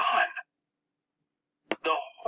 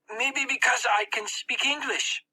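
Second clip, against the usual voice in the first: put-on higher, unsure boy voice; 9 semitones higher than usual. Max guessing why he was chosen. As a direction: offer it as a guess.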